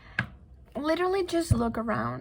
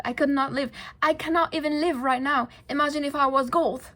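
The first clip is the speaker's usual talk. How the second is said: slipping into a British accent, slightly raised pitch; 2 semitones higher, 3 dB louder than usual. Real, not acted. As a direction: let a British accent creep in. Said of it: "I go into the British accent".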